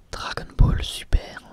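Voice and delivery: ordinary delivery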